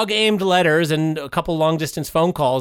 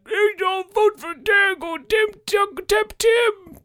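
very high, slow, hammed-up Irish accent; mock Irish accent; 13 semitones higher, slower than usual. Campaigning at the bachelor party as the Irish uncle, high mock Irish accent. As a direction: chant it high in a silly Irish voice. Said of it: "I'm just like".

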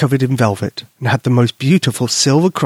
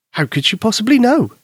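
Albert voice; 9 semitones higher than usual. Acted. Albert asks.

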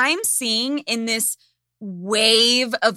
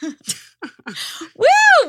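excited whoop; 13 semitones higher, 7 dB louder than usual. Real, not acted. Hyping herself up.

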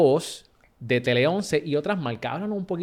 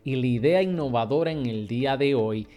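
upbeat host and ad read, punchy openings; podcast host intro. Acted. Host greeting listeners and selling the studio, upbeat ad read. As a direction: sell the show and the studio with energy. Host opens show and reads ad.

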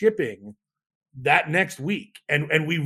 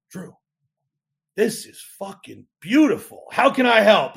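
higher, building to a louder offer; thrilled customer; 4 semitones higher, 5 dB louder than usual. Retold or imitated. Founder retelling a big customer's reply, thrilled. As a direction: imitate an impressed buyer, rising in enthusiasm.

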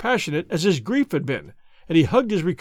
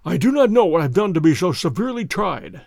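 a weary, grieving banker, slightly raised; the broken banker complains of his trials; distraught old banker; 4 dB louder than usual. Acted. Banker to Holmes, lightly voiced grief.

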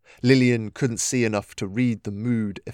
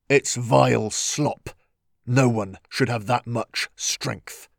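disgusted hiss. Acted. Gennaro voiced, disgusted.

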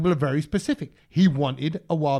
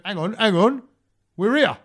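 louder, hammed-up realisation; mild mock alarm; 2 semitones higher, 5 dB louder than usual. Comedian realising they've already reached Coventry, mock alarm. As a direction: call it out like he's just noticed. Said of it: "And he went".

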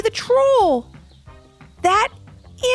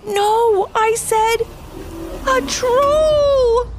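high, louder critter yell; louder than intended; much slower than usual. A narrator's reading. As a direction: blurt it too loud. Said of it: "in a voice louder than he had intended".

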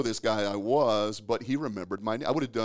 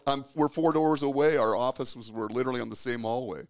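retold indignation, voice climbing; mock-outraged complaint, building louder; exasperated disbelief; 4 semitones higher, 4 dB louder than usual. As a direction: protest like a slighted employee, half laughing. Retells his disbelief at the boss.

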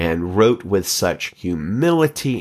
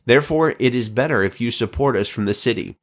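higher, pressing plea; pleading crowd; 7 semitones higher, faster than usual. Acted. The people beg King David to stay, higher and urgent. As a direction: urge the king, rushing to stay. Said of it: "the people pleaded".

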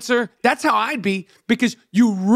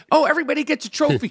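high, fast, sing-song mock cheer; quick, bright-eyed fake cheer of a kids' teacher; mocking gym teacher; 5 semitones higher, much faster than usual. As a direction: parody a chirpy first grade coach. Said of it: "it'd be like".

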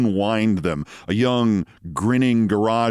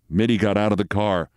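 ordinary delivery, nothing marked

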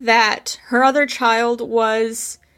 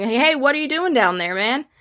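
light teasing; 4 semitones higher than usual. Retold or imitated. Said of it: "making a little bit lighter".

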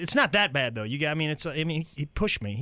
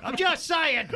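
higher-pitched accusing comic voice; raised, mock-innocent character voice; ignorant know-it-all; 13 semitones higher, slower than usual. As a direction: insinuate like a clueless loudmouth. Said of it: "they get that look in their eyes".

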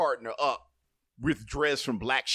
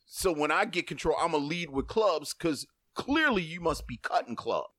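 lightly acted exasperated reasoning; temperamental card player. Spades player reading a partner's bad play, mildly exasperated. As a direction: lecture a partner on their mistake. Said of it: "y'all get really temperamental about that".

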